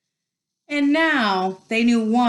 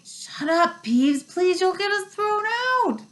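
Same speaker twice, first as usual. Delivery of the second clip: high, urgent begging; panicked plea; 10 semitones higher than usual. A narrator's reading. A pupil begs Peeves not to give them away, panicked. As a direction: plead to hush him before trouble comes.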